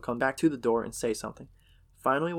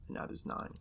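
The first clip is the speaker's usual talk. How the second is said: whispered count; 7 dB quieter than usual. Retold or imitated. Counting people in fear.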